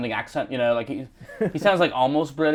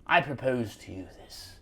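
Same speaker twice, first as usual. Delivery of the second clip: florid Victorian English gentleman, often high; Dickensian British; 4 semitones higher than usual. Acted. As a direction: woo a lady in grand old-fashioned British. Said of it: "like you're in a Charles Dickens book".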